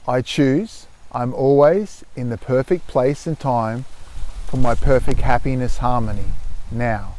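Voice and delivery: measured, calm affirmation; steady mantra for listeners to follow; mantra recitation. Shown as a demonstration. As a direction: recite it evenly, settling on the last word.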